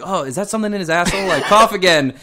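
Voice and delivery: high, quick inspector voice; mock inspector voice.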